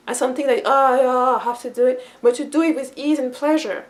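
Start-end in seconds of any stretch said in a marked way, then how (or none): 0.6-2.1 mock reluctant groan of obligation; grudging duty. Someone serving only as a duty, grudgingly. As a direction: drag it out like a chore. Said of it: "not only to do it as a duty".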